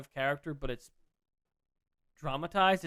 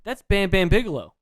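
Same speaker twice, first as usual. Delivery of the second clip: louder, higher call of the name; thrilled recognition, louder and higher; excited recognition; 6 semitones higher, 12 dB louder than usual. Retold or imitated. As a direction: shout out the name on seeing him. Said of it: "I go".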